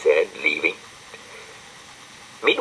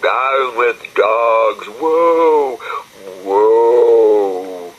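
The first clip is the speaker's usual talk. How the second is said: very slow, loud wailing protest; hammed-up weeping-willow wail; wailing trees; 5 semitones higher, 6 dB louder, much slower than usual. A narrator's reading. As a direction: howl it out in grief. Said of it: "as the trees wept buckets".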